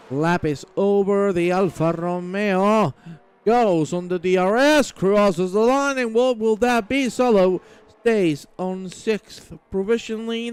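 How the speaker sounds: live race commentary. Acted. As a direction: race commentator building up as the cars cross the line.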